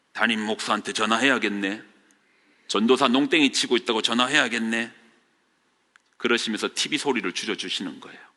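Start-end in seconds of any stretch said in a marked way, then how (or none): 0.2-4.9 put-on brusque, matter-of-fact, curt delivery. Retelling what an older man said when asked to wake him: imitating a blunt retort. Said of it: "그 아저씨가 퉁명스럽게 말합니다".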